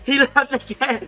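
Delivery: high, slow, laughing cheer; gleeful. Real, not acted. Player delighted his rival left the game, gleeful. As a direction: repeat it high through a laugh.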